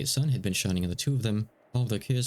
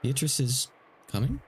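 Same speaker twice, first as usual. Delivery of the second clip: surprised question; 5 semitones higher than usual. Acted. Rosa surprised at the witch.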